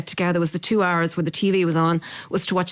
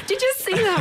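amazed exclamation. Retold or imitated. Retold amazement at beach hut.

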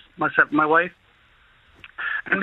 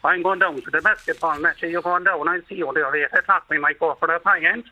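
put-on Killarney accent. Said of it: "they speak like this".

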